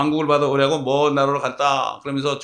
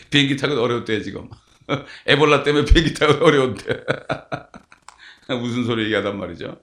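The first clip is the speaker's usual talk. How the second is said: laughing; 3 semitones lower than usual. Real, not acted. Laughs while telling.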